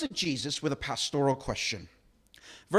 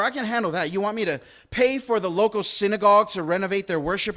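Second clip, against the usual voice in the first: eager bargaining; 4 semitones higher, 4 dB louder than usual. Retold or imitated.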